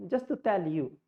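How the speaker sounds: lightly imitated Middle Eastern accent. Teacher showing how they speak, Middle Eastern accent. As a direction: say it as a demo of Middle Eastern English. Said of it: "that's how they speak".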